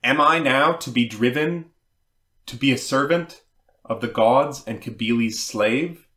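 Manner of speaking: understated dramatic cry, questions pushed out firmly; mildly crying out. Acted. Attis cries out after his castration, mildly declaimed outcry. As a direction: recite an anguished outcry with a touch of force. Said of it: "cries out".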